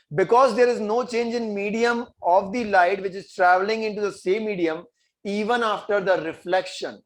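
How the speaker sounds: slow dictating voice for notes; slow classroom dictation, word by word. Acted. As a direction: spell out each word slowly so they can write. Teacher dictates answer slowly.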